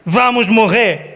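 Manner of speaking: unexcited, businesslike dictation; calm memo reading. Shown as a demonstration. Preacher mocks disciples signing a memo, calm formal tone. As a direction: read it out like a routine memo. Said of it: "Não estavam tranquilos, não mandaram um memorandum".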